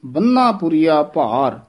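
ਬੰਨਾ said heavily, with a weighted double n; slow recital leaning on ਬੰਨਾ; heavy ਬੰਨਾ. Shown as a demonstration. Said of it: "ਭਾਰਾ ਉਚਾਰਨ ਕਰਨਾ ਹੈ".

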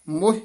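ਮੋਹ with a short vowel, cut off promptly; short, quick ਮੋਹ. Shown as a demonstration. Teacher showing students a quick, short ਮੋਹ. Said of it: "ਛੇਤੀ ਬੋਲਣਾ".

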